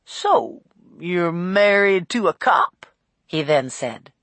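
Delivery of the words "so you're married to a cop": lightly voiced cabbie, drawn-out question; pry slowly like a chatty driver; a hint of an old cabbie; nosy old cab driver.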